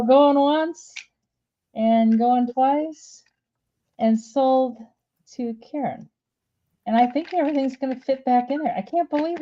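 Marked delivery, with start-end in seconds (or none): 0.0-6.1 slow, drawn-out going once, going twice, sold; mock auctioneer call. Seller jokingly closes the sale to Karen, slow mock auctioneer call. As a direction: hammer it down like a playful auctioneer.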